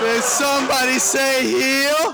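slow drawn-out heel taunt. Acted. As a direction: stretch it out, taunting the crowd. Heel repeats his entrance line.

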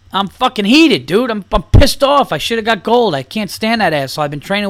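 hammed-up fuming loser; mock angry athlete. Comic voices the athlete's imagined angry answer. Voicing angry silver medalist.

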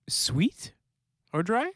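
puzzled whispered echo. Real, not acted. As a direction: whisper it back, baffled. Puzzled echo of odd question.

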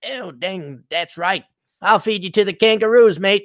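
a jokey mock Australian bloke; Australian accent. Mocking a blogger who writes in an Australian accent, light hammed-up Australian accent. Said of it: "he does it in an Australian accent".

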